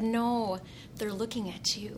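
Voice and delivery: quiet, assured retold answer; tender, hushed prince's line; gentle reply. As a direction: softly correct her, letting the end drop. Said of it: "he just looked at her and said".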